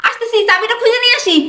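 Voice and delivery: calling out. Acted. Daughter to father waiting for the key, calling out.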